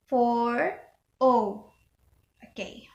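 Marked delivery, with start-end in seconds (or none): 0.1-1.7 "for O" with long O vowels. Shown as a demonstration. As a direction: draw out the vowels in "for O". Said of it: "this is for long O".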